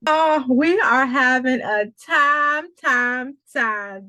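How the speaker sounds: high, loud and slow, then echoing away; overjoyed host relishing the moment; excited. Real, not acted. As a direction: savour it, letting the word time fade out. Host celebrating on stage.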